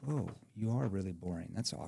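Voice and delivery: deadpan awkward reply; flat, awkward. Shown as a demonstration. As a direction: mumble it awkwardly. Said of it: "what if I said it like this".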